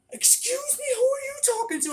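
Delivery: very high, loud mock squeal; offended customer. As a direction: mimic her shrieky indignation. Retold offended customer's comeback.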